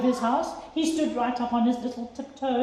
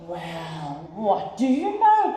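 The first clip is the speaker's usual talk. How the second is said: cried out; 5 semitones lower, slower than usual. Acted. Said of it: "cried the elephant".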